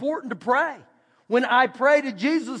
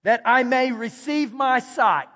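deliberate quote. Shown as a demonstration. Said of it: "his exact words is".

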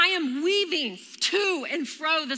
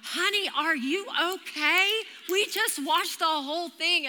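put-on old ladies; 3 semitones higher than usual. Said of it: "these two old ladies pull up".

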